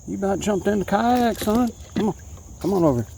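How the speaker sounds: high, thrilled praise to the fish; excited. Real, not acted. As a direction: gush at the fish. Talking to the caught bass.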